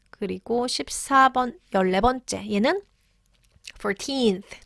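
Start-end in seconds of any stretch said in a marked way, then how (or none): 3.8-4.7 put-on "Fourteenth" with strong, long "teenth"; light "Four", weight on "teenth"; second-syllable stress. Shown as a demonstration. Teacher stating the rule, "Fourteenth" stressed on "teenth". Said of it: "두 번째 강세가 온다".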